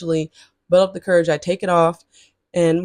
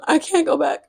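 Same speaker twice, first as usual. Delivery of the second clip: a light, higher imitation of the TikTok sound saying I can't go back; imitating the TikTok sound; 7 semitones higher than usual. Quoting a TikTok sound to her viewers: light imitation. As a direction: quote the viral sound, can't lifted and falling off. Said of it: "Just like that TikTok sound".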